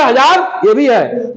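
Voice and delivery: हजार ये भी है, slowed right down with हजार leaned on; teacher repeating it slowly so kids follow. Shown as a demonstration. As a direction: spell it out slowly, stressing हजार. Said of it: "अब देखो".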